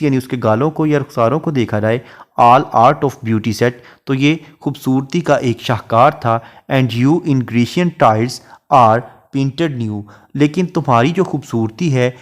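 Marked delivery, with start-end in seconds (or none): 2.4-3.7 slow, measured reading of a verse line; poetry recitation. Shown as a demonstration. Teacher reciting a Shakespeare sonnet line to students, slow and measured. 6.7-10.0 slow, measured reading of a verse line; poetry recitation. Shown as a demonstration. Teacher reciting a Shakespeare sonnet line to students, slow and measured.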